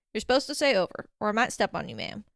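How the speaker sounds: mildly grumbled reprimand, dropping on the last word; grumbling. Acted. Radio operator scolding her for missing protocol, grumbling. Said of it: "the voice grumbled".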